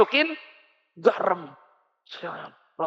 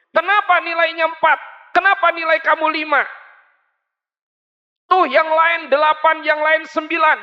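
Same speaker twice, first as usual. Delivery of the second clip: scolding parent; 5 semitones higher than usual. Acted. Parent scolding child over grades.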